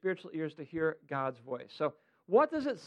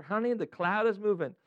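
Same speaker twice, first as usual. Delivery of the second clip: lightly drawled Southern repeat; a hint of proper Southern belle; Southern belle accent. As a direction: retell it with a gentle Southern twang. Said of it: "That is exactly what God said to her".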